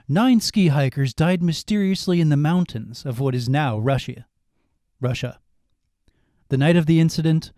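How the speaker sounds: calm, measured mystery narration; fireside storytelling. Acted. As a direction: tell it like a ghost story by the fire. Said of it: "My storytelling voice".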